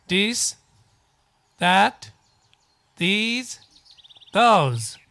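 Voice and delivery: This That these those said slowly and clearly, one by one; repeat after me. Shown as a demonstration. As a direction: model each word for the class to repeat. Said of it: "repeat after me".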